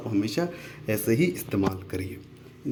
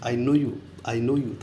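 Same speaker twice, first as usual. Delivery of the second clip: slow teaching read; much slower than usual. Shown as a demonstration. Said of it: "क्या बोलें".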